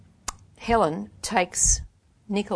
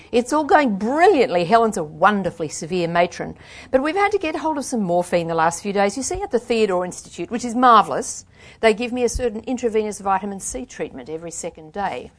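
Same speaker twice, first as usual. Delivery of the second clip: lightly voiced posh English accent, louder and bright; a touch of a posh accent, putting on a brave show; 4 semitones higher, 9 dB louder than usual. Nicola putting on a brave show for Peggy, in a light posh accent. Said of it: "spraying compliments and exclamations in her poshest accent".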